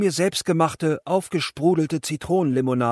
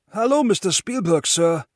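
higher and louder, eager polite greeting; bow down with your voice, no ego at all; overly respectful hello to a famous director; humble and deferential; 4 semitones higher, 4 dB louder than usual. Retold or imitated. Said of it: "so unaufgeblasen, wie es nur ging".

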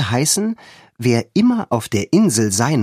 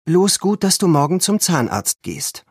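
voiced friend; 7 semitones higher than usual. A narrator's reading. Anne voiced by narrator.

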